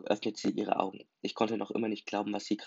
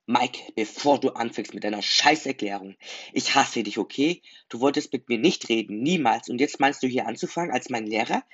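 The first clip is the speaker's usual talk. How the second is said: angry; 7 dB louder than usual. Acted. Jason confronts Michael furiously.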